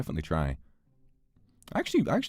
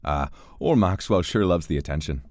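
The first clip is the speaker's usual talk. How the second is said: put-on Irish accent; 4 semitones lower than usual. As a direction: lightly voice a wry Irishman. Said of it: "My Irish definitely needs work".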